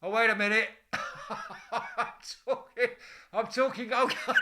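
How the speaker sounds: loud, helpless laughter through the words; words broken up by real laughter; laughing while talking. Real, not acted. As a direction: crack up mid-sentence. Cracks up at own bucket routine.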